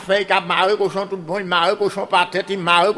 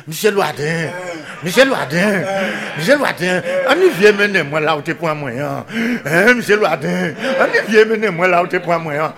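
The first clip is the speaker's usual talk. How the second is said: crying pig's slowed call. Acted. Pig to the man carrying him off, calling plaintively. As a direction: call out the name like a tiring pig. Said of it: "qui a ralenti en les cris".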